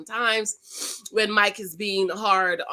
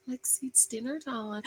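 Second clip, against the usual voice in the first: calling upstairs; 11 dB quieter than usual. Retold or imitated. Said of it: "if I'm yelling upstairs for Lexi".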